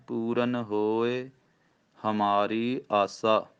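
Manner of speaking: slow recitation, pause after ਹੋਏ; teacher models pause and dental ਨ in ਪੂਰਨ; pause demo. Shown as a demonstration. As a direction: recite ਪੂਰਨ ਹੋਏ, break, then ਹਮਾਰੀ ਆਸਾ slowly. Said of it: "ਪੂਰਨ ਨੰਨੇ ਨਾਲ ਹੀ ਕਹਿਣਾ ਹੈ".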